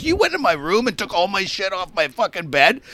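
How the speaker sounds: imitating mild indignation; retold pissed off. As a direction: act out a roommate getting annoyed. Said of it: "he starts getting pissed off".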